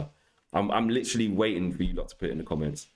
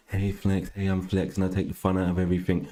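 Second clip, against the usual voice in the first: subdued put-on streamer voice; mocking self-parody; 2 semitones lower than usual. Streamer mimicking what chat says he sounds like, mocking. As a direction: parody the voice you're accused of having. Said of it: "you talk like this".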